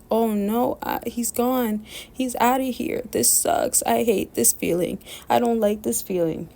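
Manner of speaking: high, hushed mock despair; a girlfriend realizing he's gone, voiced with high, hushed despair; intense distress, imitated. Voicing her more intense panic.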